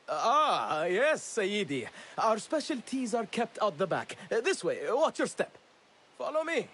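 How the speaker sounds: high, showy obliging shopkeeper voice; melodramatic cover act. Acted. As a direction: play the eager host for anyone watching. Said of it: "Sorry for the melodramatics".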